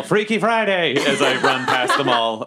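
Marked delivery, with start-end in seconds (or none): 0.0-1.0 mild yell. Acted. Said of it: "and I just yell".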